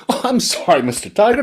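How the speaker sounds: high, squeaky frog apology; high, sly little frog; mock-apologetic frog. A narrator's reading. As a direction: feign innocence to the tiger.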